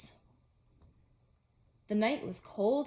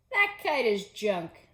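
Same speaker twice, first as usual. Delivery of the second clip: jeering robins; 6 dB louder, slower than usual. Acted.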